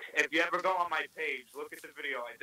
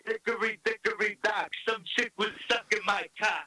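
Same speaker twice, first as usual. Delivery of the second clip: Andrew Dice Clay impression; 5 semitones higher, 3 dB louder than usual. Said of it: "How, how's your dice?".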